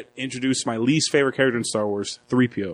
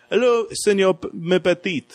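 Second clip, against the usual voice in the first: higher, imitated cheery foreign greeting; 5 semitones higher than usual. Podcaster playing the officer greeting the farmer, cheery. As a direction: greet him in a put-on jovial voice. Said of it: "he's all cheery".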